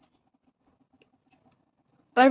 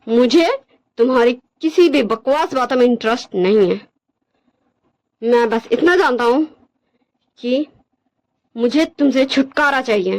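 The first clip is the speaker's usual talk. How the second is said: measured, dismissive character voice; cold, rejecting Wangji. Acted. Wangji demands a divorce from Wing, cold and dismissive. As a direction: reject him firmly, with deliberate pauses.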